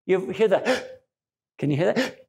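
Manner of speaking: sharp gasp of surprise, then hushed. Shown as a demonstration. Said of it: "where you went".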